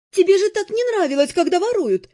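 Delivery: high, lightly amused teasing; laughing reminder. A narrator's reading. Mercenary woman reminds heroine she hated stealing, amused. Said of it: "смеясь, напомнила Нет".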